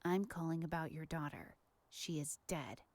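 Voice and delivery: menacing caller. Acted. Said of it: "to do a phone voice".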